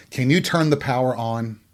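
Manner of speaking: drawn-out insults, some shouted; slow, shouted hammed-up name-calling; mock tirade. Host berates imaginary airheads in a hammed-up slow shouted tirade.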